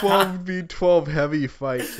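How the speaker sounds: chuckling while speaking; amused, laughing the words out; a laughing wish. Real, not acted. Laughing at heavy idea.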